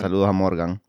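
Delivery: breathy whispered shout-out; hushed mock greeting; whispered echo.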